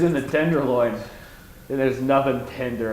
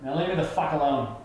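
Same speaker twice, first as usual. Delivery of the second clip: John Cleese. Retold or imitated. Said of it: "he turns around and says".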